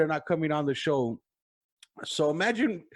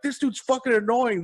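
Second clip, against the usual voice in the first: imitated annoyed crowd; 7 semitones higher than usual. Crowd complains about drunk fan.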